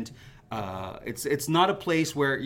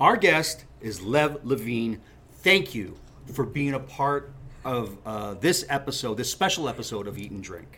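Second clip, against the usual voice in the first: robot voice. Real, not acted. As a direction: speak each word like a machine, evenly. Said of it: "Why are you speaking like a robot?".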